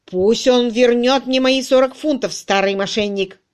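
loud angry yell at the swindler. A narrator's reading. Crutchley yelling about his forty pounds. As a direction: shout out the demand for the money. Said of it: "завопил Крачли".

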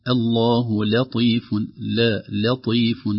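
"لطيف" with a thin "la" before the heavy ط; careful, slow "لطيف", lam not thickened; light lam. Shown as a demonstration. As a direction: slowly separate a light "la" in "لطيف". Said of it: "قد يؤثر على اللام".

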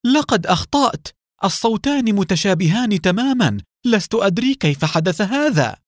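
high, frightened and shaken; terrified admission of error; trembling voice. Acted. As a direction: let the fear break through each word. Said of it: "بصوت مرتعد".

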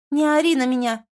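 high, loud yell; shouting. A narrator's reading. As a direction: yell back at him. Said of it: "Аня тоже кричит".

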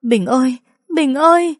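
high, loud calls rising; calling out. A narrator's reading. Mother runs and calls her missing son loudly. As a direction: call the lost child's name across the street. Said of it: "vừa chạy vừa gọi".

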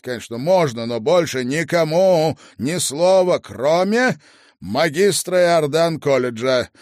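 loud, firm lord over headset; commanding lord. Acted. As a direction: give stern orders, loud and clear. Lord Asriel speaking through headphones.

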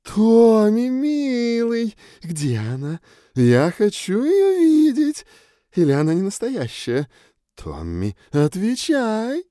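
loud, high booming mother; hollering mother. A narrator's reading. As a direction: holler for your son across the room. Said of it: "проголосила".

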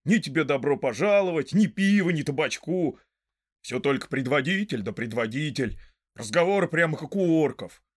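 indignant grumbling; exasperated rant. Acted. Sam rants about the lack of welcome, exasperated. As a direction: complain with indignation, punching words.

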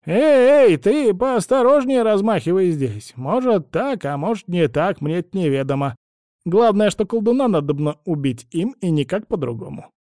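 sharp, loud crone shouting, then settling; alarmed old woman. A narrator's reading. Old woman scolds Vasily for swinging the shield, loud crone voice.

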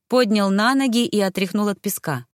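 usual speaking voice

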